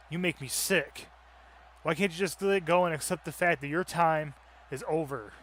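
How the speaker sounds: loud defiant trash talk; angry wrestler promo. Acted. Young wrestler defying the old champion, loud angry promo. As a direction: bark it back at the old champion.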